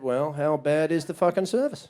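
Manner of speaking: slow, dry sarcasm; deadpan the comeback slowly; a slow, dry jab; sarcastic retort. Retold or imitated. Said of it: "I said".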